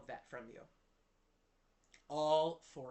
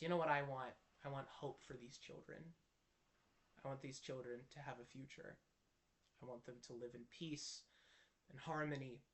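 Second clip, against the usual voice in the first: softly voiced king's wish; 5 dB quieter than usual. King's hopeful wish, retold.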